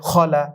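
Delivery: "খলা" with a thick, full first sound; thick Arabic letter. Shown as a demonstration. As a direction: say "খলা" with a heavy খ. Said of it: "পড়তে হবে মোটা করে". ("খলা"-র খ মোটা করে উচ্চারণ)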